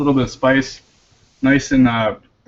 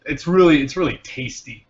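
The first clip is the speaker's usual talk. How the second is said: food host; 2 semitones higher than usual. Shown as a demonstration. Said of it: "You gotta really describe the food".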